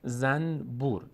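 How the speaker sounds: زنبور slowly in two parts, zan-bur; word split up. Shown as a demonstration. Teacher giving a Persian example, slow careful syllables.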